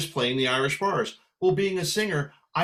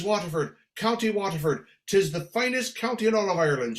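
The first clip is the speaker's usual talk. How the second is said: lilting Irish brogue, higher; Irish lady's brogue; 4 semitones higher than usual. Retold or imitated. Little lady naming Waterford to singer, lilting Irish brogue. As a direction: declare it proudly in an Irish brogue. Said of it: "She says".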